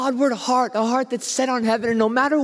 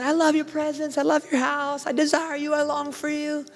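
tender devotion; 4 semitones higher, 4 dB quieter than usual. Retold or imitated. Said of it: "he said".

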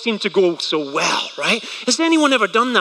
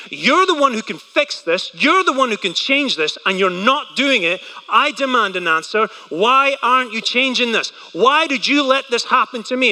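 a hint of raised, demanding voice; demanding complaint to God; 3 semitones higher than usual. Believer complaining to God, mild demanding tone. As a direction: lightly press God for an answer. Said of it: "take your complaints to him and say".

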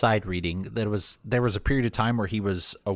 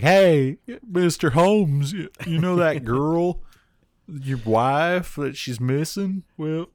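hammed-up Boston cop, pitched much higher; podcaster's jokey Boston cop voice questioning the killer; mock Boston accent; 8 semitones higher, 3 dB louder than usual. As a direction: play a nosy Boston cop badly, up high. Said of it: "Why do you sound like Larry the Cable Guy?".

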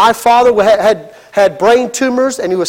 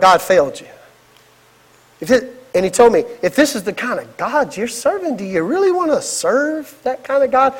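a hint of a sneering devil, softer; lightly voiced devil; 3 dB quieter than usual. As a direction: whisper doubt like the devil. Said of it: "the devil will come in and go".

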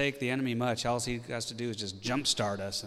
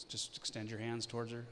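teasing; 8 dB quieter than usual. Pretend. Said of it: "I'm teasing".

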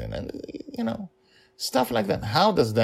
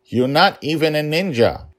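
taunting villain; 10 semitones higher, 7 dB louder than usual. Acted. Emperor taunts the child.

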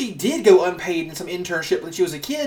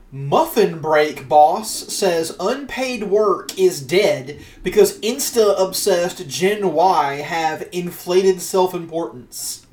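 deliberate, very slow Australian-news headline read; much slower than usual. Shown as a demonstration. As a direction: read the headline out slowly, word by word. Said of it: "I'll just read the headline for you".

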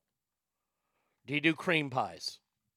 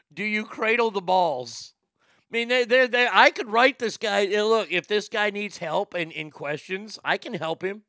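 higher, louder excited rant; 5 semitones higher, 5 dB louder than usual. Real, not acted. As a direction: get worked up and push. Excited mock interview rant.

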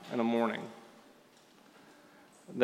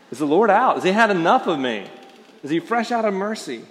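anxious doubt; 6 semitones higher, 5 dB louder, faster than usual. Pretend. Imagined anxious believer's questions.

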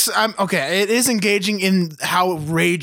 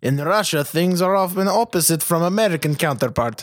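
put-on comic Russian-accented English; light put-on Russian accent. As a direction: do a mock Russian lecturer. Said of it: "antebellum Russia".

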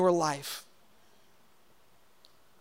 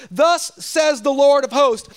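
voice of God; 3 semitones higher, 6 dB louder, slower than usual. Acted. Preacher voicing God's judgement on the people, slow and booming. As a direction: pronounce it like a stern God rebuking. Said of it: "And it goes like this".

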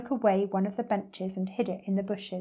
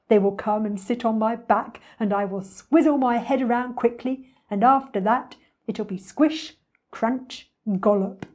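lightly voiced greedy beast, louder; a hint of gloating predator; scheming crocodile; 5 dB louder than usual. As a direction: relish the plan as the crocodile.

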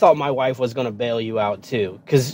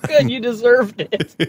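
high, blunt "serves you right"; blunt wife; 9 semitones higher than usual. Retold or imitated. Echoing his blunt wife to the boy, a high dismissive quip. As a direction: say it flatly, no sympathy. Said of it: "She's so blunt".

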